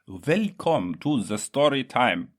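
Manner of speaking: hammed-up storyteller greeting; mock storyteller. Shown as a demonstration. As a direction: announce story time theatrically. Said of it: "No, no, no".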